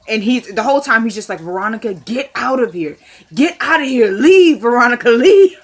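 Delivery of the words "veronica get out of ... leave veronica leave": building mock order. Retold husband ordering her out.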